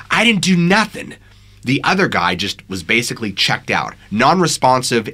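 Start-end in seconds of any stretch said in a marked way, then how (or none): 0.1-1.1 high-pitched defensive yell, moderately raised volume; yelling back. A narrator's reading. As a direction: yell back in protest, voice jumping up. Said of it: "Anders is yelling back to her".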